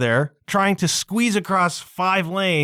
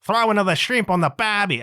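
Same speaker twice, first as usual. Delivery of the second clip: badly faked Australian accent, a little higher; hammed-up Australian catchphrase, higher; attempted Australian accent; 4 semitones higher than usual. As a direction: have a half-hearted go at sounding Australian. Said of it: "I can't do it".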